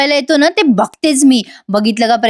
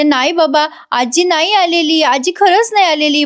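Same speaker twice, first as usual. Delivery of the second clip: put-on pleading child; 5 semitones higher than usual. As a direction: beg him to believe you, like a scared little girl. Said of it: "ओवी म्हणते".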